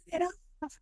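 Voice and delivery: high-pitched mock scream, held back in volume; freaked-out little kid shrieking in falsetto; retold childhood yell. Five-year-old yelling at his friend over a scary movie, high mock yell. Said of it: "yelled at him".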